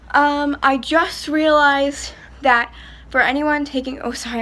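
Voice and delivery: breathless from the heat; talking while out of breath. Real, not acted. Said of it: "I'm out of breath".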